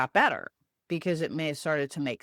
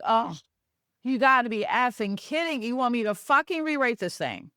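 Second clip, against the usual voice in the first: higher, indignant mock outrage; outraged disbelief; 6 semitones higher than usual. Told to rewrite it, a higher indignant mock outrage. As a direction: scoff at the order, incredulous.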